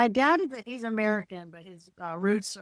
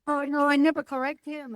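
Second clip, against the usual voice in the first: higher-pitched imitated meek mother, Asian accent; subservient Asian mom; 6 semitones higher than usual. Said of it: "Being a subservient Asian".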